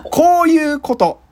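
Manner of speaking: slow, growled gangster line; yakuza movie voice. Shown as a demonstration. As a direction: drop into the yakuza character.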